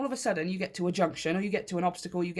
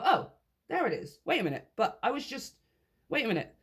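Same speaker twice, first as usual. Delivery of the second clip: mock surprise; 4 semitones higher than usual. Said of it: "a beautiful surprise for you".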